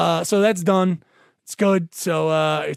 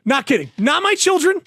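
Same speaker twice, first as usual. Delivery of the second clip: ordinary talk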